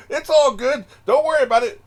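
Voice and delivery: high, loud mock reassurance through laughter; laughing imitation. Reactor mimicking the character's line choices, high and laughing.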